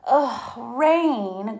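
fed-up groan at the rain. Acted. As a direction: groan it out, disappointed. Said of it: "groaned Mortimer".

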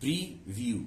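"preview" broken into two parts, pre and view; split into syllables. Shown as a demonstration. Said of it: "هنا كلمة مقسومة نصين". (نطق "preview" مقسومة نصين: pre ثم view)

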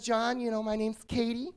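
soft, breathy flirt sinking to a whisper on "sexy"; hushed flirty voice of a fan. Retold or imitated. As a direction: coyly tease him. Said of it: "she says".

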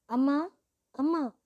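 high, loud panicked scream of "Amma"; loud cry for mother. Acted. Trapped girl cries out for her mother, loud panicked scream. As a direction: scream for your mother in terror. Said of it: "అని గట్టిగా అరిచాను".

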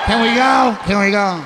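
lightly mocked sulky child; hint of a child's petulant whine; mad eight-year-old. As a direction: imitate a cross kid pestering to leave. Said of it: "like a mad eight-year-old".

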